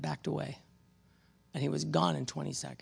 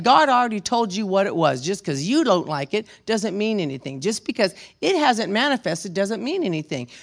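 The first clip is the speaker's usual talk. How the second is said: stern retold reply; 3 semitones higher, 8 dB louder than usual. Preacher retells his firm reply.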